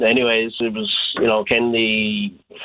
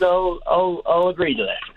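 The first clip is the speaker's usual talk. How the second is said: high-pitched imitated Southern Shore twang; 8 semitones higher than usual. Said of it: "in her Southern Shore twang".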